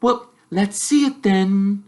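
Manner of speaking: put-on bossy girl. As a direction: challenge him like a clever girl. Hermione voiced by narrator.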